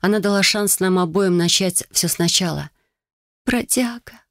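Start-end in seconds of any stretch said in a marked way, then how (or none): 3.4-4.2 breathless whisper. Acted. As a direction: whisper it, overwhelmed with joy. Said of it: "прошептала я".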